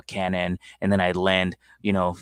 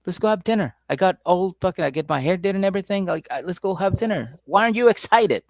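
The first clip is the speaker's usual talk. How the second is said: higher and louder, building to a shrill demand; higher, loud, exasperated girlfriend voice; mock angry girlfriend; 10 semitones higher, 5 dB louder than usual. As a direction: nag him, rising to a yell. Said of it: "she got mad at him".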